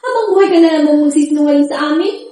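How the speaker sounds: loud, bitter accusation pushed out; angry confrontation. Acted. Daughter confronts sister in anger. (galit na pagsumbat, malakas)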